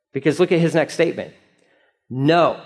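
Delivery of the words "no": acted firm refusal; emphatic no. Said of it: "An emphatic no".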